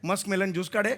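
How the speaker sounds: मनोमिलन garbled into मस्क मेलन; mangled name. Acted. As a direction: botch स्वरछेडे as ज्यूस काढे. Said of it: "मनोमिलन स्वरछेडे असं नाव आहे माझं".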